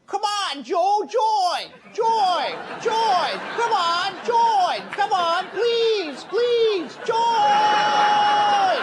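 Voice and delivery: whiny nagging plead; herniated cat voice. Acted. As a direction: nag in a strained cat-like whine. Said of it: "continue to nag with my herniated cat voice".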